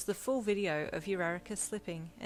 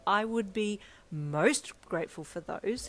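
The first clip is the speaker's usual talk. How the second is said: louder, slower, eager; exclaiming; 2 semitones higher, 7 dB louder, slower than usual. Acted. Editor accepting baby photos, loud and eager. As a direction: jump at the offer gladly. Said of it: "he exclaimed".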